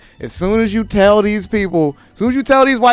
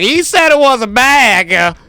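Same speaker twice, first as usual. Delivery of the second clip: mock nitpicking viewer; 7 semitones higher, 5 dB louder, slower than usual. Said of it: "somebody gonna watch this and be like".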